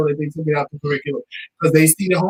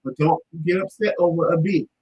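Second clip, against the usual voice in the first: much softer, gentle reassurance; reassuring; 3 dB quieter than usual. Retold or imitated. Family calming niece over a B, softly. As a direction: talk her down quietly. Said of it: "And we're like".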